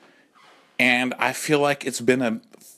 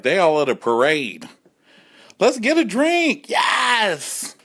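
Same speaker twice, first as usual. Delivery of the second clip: high, loud call to go drinking; excited gays; 11 semitones higher, 3 dB louder, slower than usual. Retold or imitated. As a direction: cheer the others on to the bar. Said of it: "We were like".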